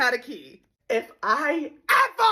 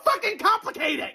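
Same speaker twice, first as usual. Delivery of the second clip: high laughing wail; despairing scream; 9 semitones higher than usual. Acted. Daily scream rant.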